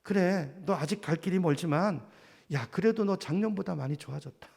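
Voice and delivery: encouraging voice. Retold or imitated. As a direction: gently encourage a struggling friend. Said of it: "저를 격려하고 축복하는 음성".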